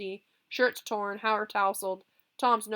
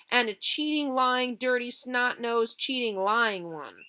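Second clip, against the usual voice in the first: hurling insults; 5 semitones higher, 6 dB louder, slower than usual. Acted.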